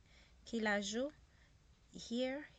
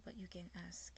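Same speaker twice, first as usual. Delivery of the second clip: whispered aside; 7 dB quieter than usual. Real, not acted. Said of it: "unvoiced whisper".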